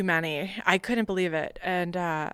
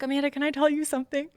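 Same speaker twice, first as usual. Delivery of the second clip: higher, quick words with a laugh; imitated laughing question; 8 semitones higher, 4 dB louder, faster than usual. Amused interviewer asking the nervous recruit, laughing. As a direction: retell his question through laughter. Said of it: "he just starts laughing".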